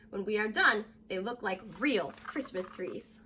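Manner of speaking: clear, lively read-aloud voice; storybook narration for young kids; reading to children. Acted. Teacher reading picture book aloud.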